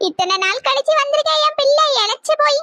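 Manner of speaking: mild, acted weeping; tearful fussing. Mother laments how thin her returned son is, mildly tearful. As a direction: fuss over him through light tears. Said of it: "முதல்ல நீங்க அழுறதை நிறுத்துங்க".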